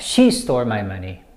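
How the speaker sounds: "she" picked out, the rest falling away; stress on SHE. Shown as a demonstration. Teacher clarifying who was accused, stress on "she". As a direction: point up the word "she" against someone else. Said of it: "I said someone stole my money, but I didn't say".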